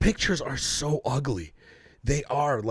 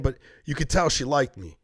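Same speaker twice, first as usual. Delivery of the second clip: ordinary delivery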